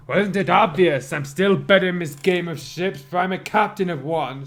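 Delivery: loud, boastful captain voice; bragging. Acted. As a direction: brag like a smug pirate captain. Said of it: "brag his way through".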